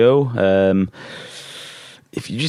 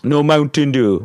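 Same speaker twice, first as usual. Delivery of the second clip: put-on whiny kid voice; 5 semitones higher, 4 dB louder than usual. Mock whine about soda.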